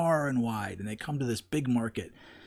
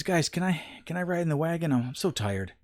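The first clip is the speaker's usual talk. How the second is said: put-on whiny tired kid; 6 semitones higher than usual. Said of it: "he says".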